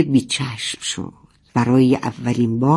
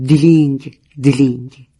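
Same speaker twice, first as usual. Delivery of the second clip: imitated bell jingle. A narrator's reading. Narrator rings the bell to break the silence, imitated jingle. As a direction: sound out a little bell, ringing twice. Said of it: "صدای زنگوله رو در آورد".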